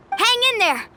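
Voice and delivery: rallying call. Acted. Arriving to the fight.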